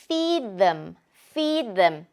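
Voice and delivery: "feed them" run together as one word, "fid-em"; linked feed them. Shown as a demonstration. Teacher showing the linked sounds as one word. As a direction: merge "feed them" into "feedem". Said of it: "한 단어처럼 들리죠".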